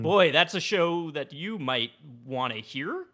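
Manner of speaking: slow, rising like a question; uncertain questioning pitch. Real, not acted. Podcast host plugging his weird show, questioning rise. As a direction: end every phrase as if unsure. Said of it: "Question mark".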